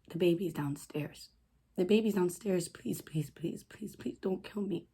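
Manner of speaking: hushed, repeated plea for mercy; desperate begging. Retold or imitated. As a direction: plead softly, voice dropping away on each please. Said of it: "I begged and I begged".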